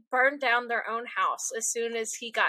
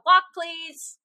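mock usher call; 4 semitones higher, 3 dB louder than usual. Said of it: "all of them heard me go".

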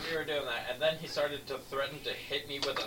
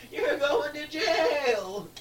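high slow drawn-out yell; hammed-up scolding shout; mock yell; 8 dB louder, much slower than usual.

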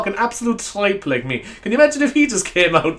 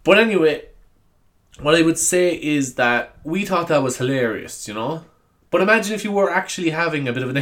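ordinary talk

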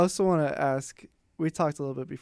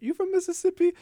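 put-on Mississippi accent; 6 dB louder than usual. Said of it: "the Mississippi gets me".

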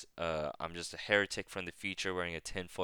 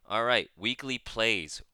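announcer voice; 3 semitones higher, 6 dB louder than usual. Real, not acted. Announcing a podcast section.

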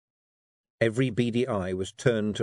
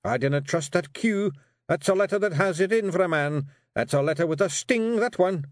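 growling Rob; 9 semitones higher, 3 dB louder than usual. Acted. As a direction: growl out your disgust at letters. Rob's voice.

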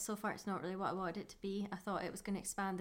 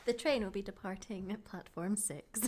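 train station announcer. Pretend.

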